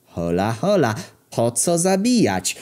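high, drawn-out plea to calm down; acted cornered thief's protest; alarmed protest. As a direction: back off from a death threat. Thief protests at the death threat.

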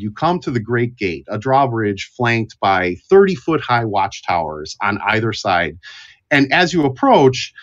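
measured storytelling narration; fantasy tabletop narration; game master scene-setting. Acted. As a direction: narrate the journey to the castle like a storyteller.

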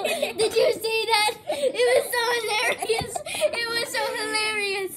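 laughing. Real, not acted. Giggling after her fall.

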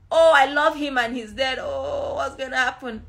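hammed-up self-pitying lament; mock self-pity. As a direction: imitate someone wallowing in grief. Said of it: "That's self-pity".

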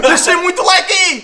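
slow, loud laughing call. Real, not acted.

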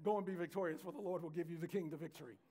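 understated sarcasm in a scripture quote; dryly sarcastic prophet, lightly acted. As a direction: mouth the company line without meaning it. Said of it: "Micaiah says sarcastically".

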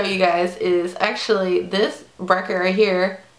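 showing teeth while talking; finger pulling lip down. Real, not acted. Seen 3: finger pulls lower lip down to show braces while talking.

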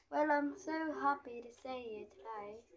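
lightly attempted British accent. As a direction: greet them in a child's pretend British. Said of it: "It has a British accent today".

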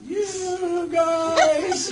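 put-on high, cracked old-man squeak; laughing old-man voice. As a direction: play yourself as a doddering old man. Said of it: "and I'll be like".

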